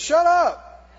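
loud, sharp order to be silent; commanding shout. Acted. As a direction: shout them down. Caleb silences the people.

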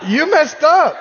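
cracking up while mock-scolding; laughing disbelief. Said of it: "'Cause I'm thinking".

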